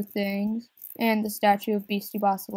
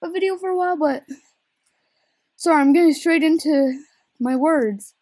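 out of breath; 8 semitones higher, 6 dB louder, faster than usual. Real, not acted. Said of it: "catch my breath".

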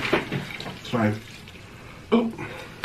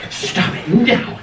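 laughing; 5 semitones higher, much slower than usual. Real, not acted. Laughing at the dog.

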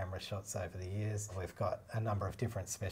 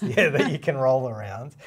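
laughing; 5 semitones higher, 14 dB louder than usual. Real, not acted. Laughs at interviewer's echo.

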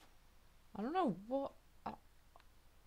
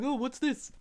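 mock surprise. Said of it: "pretending that I'm like".

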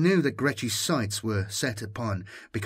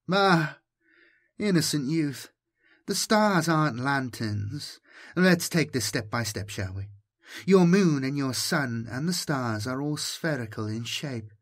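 caressing voice; 4 semitones higher than usual. Acted. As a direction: coax him gently, almost cooing. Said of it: "Was the languid voice male".

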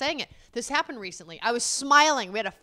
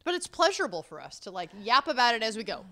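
normal talking voice

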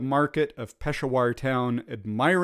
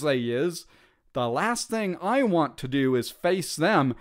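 lightly voiced rough private; a hint of a working-class soldier; common soldier voice; 4 semitones higher than usual.

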